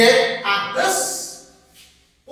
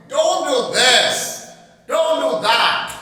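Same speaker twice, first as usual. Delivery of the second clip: slow, louder mock scolding; a demo of a mother scolding her daughter; 3 semitones higher, 5 dB louder than usual. Shown as a demonstration. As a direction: nag her like a cross mother. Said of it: "She is scolding her".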